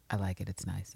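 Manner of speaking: quiet, low, tender compliment; soft sweet approval. Retold or imitated. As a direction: murmur it fondly. Contrast voicing Villanelle.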